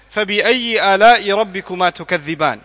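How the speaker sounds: Quran recitation. Acted. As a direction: chant the verse like a recitation. Recites the verse.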